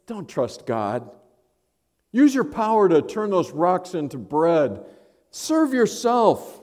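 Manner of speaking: a hint of a tempting Satan. Satan tempting hungry Jesus, coaxing and rising. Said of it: "Satan came to him and basically was saying".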